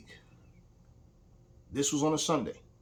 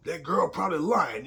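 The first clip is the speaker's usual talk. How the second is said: imitating dismissive father; 6 semitones higher, 6 dB louder than usual. Father excusing Swaggart.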